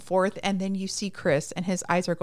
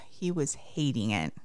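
whisper; 6 semitones lower, 5 dB quieter than usual. Real, not acted. Sympathetic aside.

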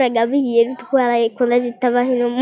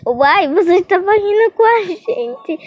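indignant pupils; 8 semitones higher, slower than usual. Retold or imitated. Pupils protesting to the teacher.

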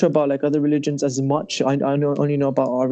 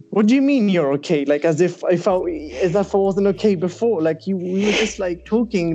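higher, mildly indignant questioning; retold disbelief; 4 semitones higher than usual. Man challenging girl who approved his caste, incredulous. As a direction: act out being taken aback. Acted disbelief at being "okay.

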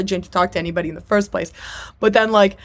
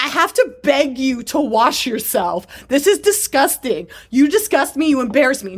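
high-pitched mock disgust; imitated scolding; 5 semitones higher than usual. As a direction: act out her fed-up rant at a partner. Retells woman berating her partner.

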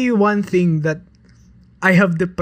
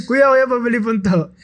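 higher, laughing call to the vendor; mock customer calling; 4 semitones higher than usual. Joking customer calling the taho vendor, laughing. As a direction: playfully call kuya over.

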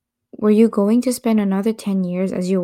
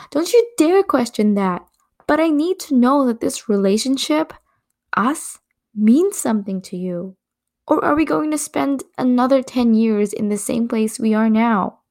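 heated argument; 4 semitones higher than usual. Acted.

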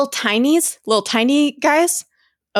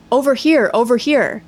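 lightly raised calling voice; mild call out; 2 semitones higher, 3 dB louder than usual. Acted. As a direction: call it out lightly, as if from a bit away. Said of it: "I heard a woman call".

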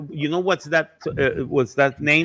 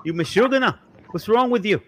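high-pitched Jewish New York scolding; Jewish New York accent; 8 semitones higher than usual. Acted. Local telling off a stranger, Jewish New York accent. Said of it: "Jewish section of New York and you go like".

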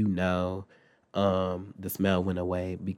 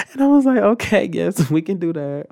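laughing through words; 8 semitones higher, 8 dB louder than usual. Real, not acted. Laughing at mama's joke.

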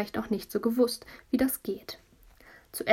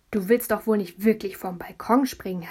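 startled call; 4 dB louder than usual. Acted. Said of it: "hat Julia erschrocken gerufen".

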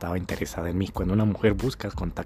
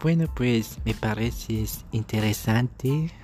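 put-on French-accented girl; slower than usual.

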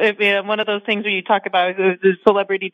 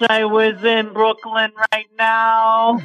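slow, savoring Brooklyn Italian voice; dreamy Brooklyn foodie, drawing out each dish; Italian New Yorker accent, slowly relishing the food; slower than usual. Acted. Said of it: "you went all Italian on me".

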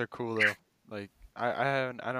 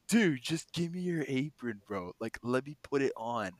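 pushy stoned guy; 3 semitones higher than usual. Retold or imitated. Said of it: "He was like".

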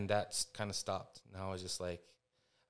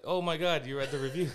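much higher and louder, starstruck; amazed; 5 semitones higher, 6 dB louder than usual. Retold or imitated. Meeting Michael Bay, starstruck higher and louder. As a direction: gasp it out, stunned he read it. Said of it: "And I was like".

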